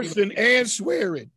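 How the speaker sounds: "and" punched between cursing and swearing; emphatic "and", as if both count; stress on AND. Real, not acted. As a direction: lean hard on "and". Stresses that Peter did both.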